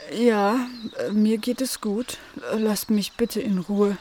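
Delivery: slightly slowed, reluctant creature voice; sleepy hedgehog. Acted. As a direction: answer drowsily, wanting to be left alone. (leicht verschlafene Igelstimme)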